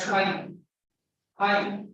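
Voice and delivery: 'fine' with both lips touching for the F; Indian mispronunciation. Retold or imitated. Teacher imitating Indian speakers' error, two-lip F. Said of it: "Indian speakers pronounce the word".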